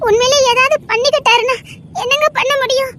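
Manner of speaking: tearful plea. Acted. Wife pleads, fears father's suicide.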